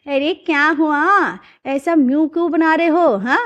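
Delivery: slow, drawn-out concerned question; a family member peering at a grimacing face; puzzled asking. Acted. Family member asking father-in-law about his face, slow and puzzled.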